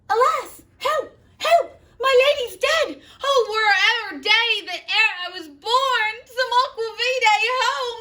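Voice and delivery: hysterical nurse shrieking very high and loud; wailing nurse. Acted. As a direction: shriek and sob as the panicked nurse. Nurse finds Juliet dead.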